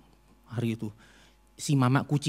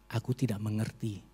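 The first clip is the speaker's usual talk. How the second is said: much softer, almost breathed out; fading prayer; 5 semitones lower, 10 dB quieter than usual. Retold or imitated. Praying to God, worn out, trailing off. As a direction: let it die away in defeat. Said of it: "hanya satu kata yang keluar dari mulut saya".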